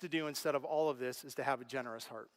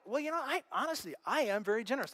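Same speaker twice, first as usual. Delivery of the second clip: much higher, defensive objecting voice; imitated listener; 5 semitones higher than usual. Imagined congregant protesting to the pastor, defensively. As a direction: voice a defensive churchgoer.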